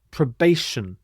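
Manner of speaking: PROBATION with the "ti" said as sh; clear model pronunciation. Shown as a demonstration. Teacher modelling Probation for learners, clearly enunciated with sh. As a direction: say Probation carefully, "ti" as sh. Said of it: "this T I combination is pronounced sh".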